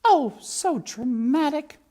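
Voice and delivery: put-on high, loud, scoffing French accent; dismissive French. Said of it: "said Antoinette".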